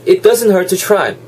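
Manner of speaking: "hurt to" linked with only one T; dropped T. Shown as a demonstration. Teacher reviewing the rule, dropped T. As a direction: slide from "hurt" into "to" on a single T. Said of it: "티 한 개 날아간다 했죠".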